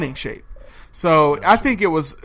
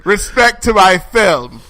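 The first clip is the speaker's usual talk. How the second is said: lightly indignant, a bit slow; stern actress demanding respect; 4 dB louder than usual. Pretend. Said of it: "be serious and be funny and do the voice".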